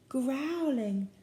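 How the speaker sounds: slow, drawn-out "growling"; growly reading. A narrator's reading. Reader leading children in animal sounds, growling. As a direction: stretch the word into a growl.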